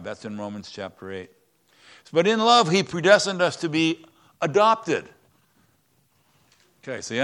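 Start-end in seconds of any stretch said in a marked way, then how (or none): 2.1-5.1 loud emphasis. Acted. Pastor preaching the key phrase.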